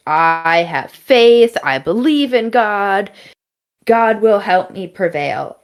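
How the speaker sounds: slow, emphatic retold declaration; lightly acted fervent testimony; proclaiming faith. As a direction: proclaim it like a devout believer. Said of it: "proclaiming how much she believes in God".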